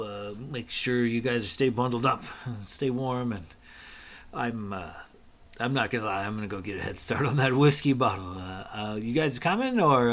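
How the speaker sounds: kindly worried dad, pleading; a fatherly plea to come home. Acted. GM voices worried father NPC.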